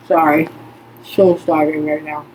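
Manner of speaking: chewing while talking; mouth full. Real, not acted. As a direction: talk around a mouthful of food. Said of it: "pardon me while I chew and talk".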